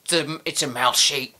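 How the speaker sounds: low, soft voice through a shaped mouth; deep beaver voice. Shown as a demonstration. Puppeteer explains her beaver to the interviewer, deep voice. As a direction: sink into the deep beaver character. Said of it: "mouth shape and go deep".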